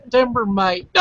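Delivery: mock Aussie "timber mate"; playful put-on Australian accent. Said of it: "more south it's".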